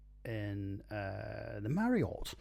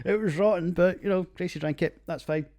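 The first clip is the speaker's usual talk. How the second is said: laughing; 8 semitones higher, 7 dB louder than usual. Real, not acted. Laughing at friend drinking rotten beer.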